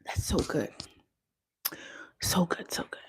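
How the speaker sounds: savouring a bite; mumbled through food; mouth full. Real, not acted. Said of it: "If it's the chicken sandwich I ate".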